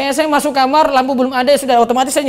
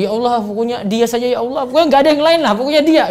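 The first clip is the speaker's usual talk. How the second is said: pushy demanding prayer; faster than usual. Shown as a demonstration.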